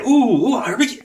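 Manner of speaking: hopeful rising ooh, anticipating; eager and building, high-pitched; excited ooh. Retold or imitated. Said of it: "that I was like".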